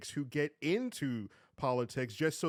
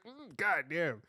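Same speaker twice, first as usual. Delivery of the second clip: low appreciative god damn; 2 semitones higher, slower than usual. Retold or imitated. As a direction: let it roll out appreciatively. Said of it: "You're like".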